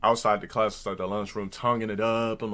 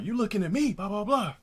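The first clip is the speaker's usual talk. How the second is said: retold retort; 10 semitones higher than usual. His retort to rival, retold.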